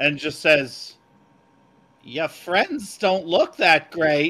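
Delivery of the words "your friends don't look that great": put-on elderly woman voice, higher and louder. Voicing Lady Syl speaking to a companion: old Jewish lady voice. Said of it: "When did you turn into an old Jewish lady?".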